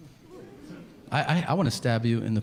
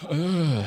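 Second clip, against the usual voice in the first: winded grunt; 5 semitones higher than usual. Retold or imitated. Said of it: "and then I go".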